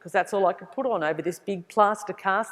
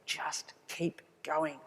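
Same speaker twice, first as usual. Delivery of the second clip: much softer and slow, a low inner murmur; quiet inner voice; 5 semitones lower, 13 dB quieter, much slower than usual. Retold or imitated. The burning feeling inside urging her on, much softer and slow. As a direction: say it like a private vow.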